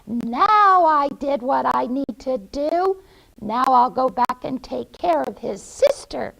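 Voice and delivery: lightly voiced scheming witch; gloating witch. Witch gloats over next victim.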